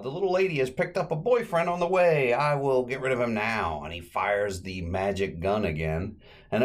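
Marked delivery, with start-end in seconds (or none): 0.0-3.8 high showman's patter voice; Professor Bilbo. Retold or imitated. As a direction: announce it like a stage magician. Magician announcing to crowd.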